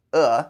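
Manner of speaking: "uh" as a clenched Chinese e vowel; Chinese E sound. Shown as a demonstration. Teacher recalling the Chinese E, clenched "uh". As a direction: say "uh" for the Chinese e, falling. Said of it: "The Chinese E kinda sounds like".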